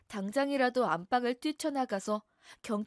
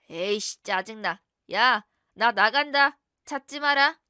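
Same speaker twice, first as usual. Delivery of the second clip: furious husband; 7 dB louder than usual. Acted. Husband cursing the neighbours and storming out, angry shout. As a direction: swear and storm out. Husband curses after police leave.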